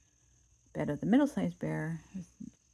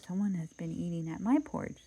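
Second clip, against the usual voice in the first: middle voice. Acted. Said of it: "in her middle voice".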